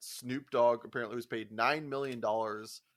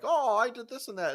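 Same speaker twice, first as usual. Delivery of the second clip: mocking coworker; 11 semitones higher, 5 dB louder than usual. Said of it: "my other coworker's like".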